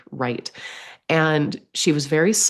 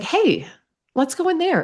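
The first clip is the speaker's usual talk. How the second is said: eager suggestion; 12 semitones higher than usual. Retold or imitated. Excitedly suggesting the tent.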